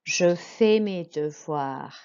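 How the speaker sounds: "Je fais mes devoirs" slow and careful; slow French model, silent S on "fais"; model French pronunciation. Shown as a demonstration. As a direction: repeat slowly, "devoirs" with vwah. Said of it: "you're going to repeat".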